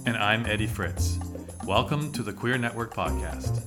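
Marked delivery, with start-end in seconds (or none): none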